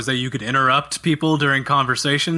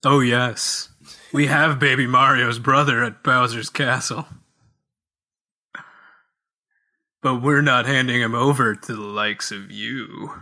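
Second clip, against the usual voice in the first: Kamek in character; 3 semitones lower than usual. Acted. Reading the wizard's boss speech to the co-host, in character. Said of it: "get into character here".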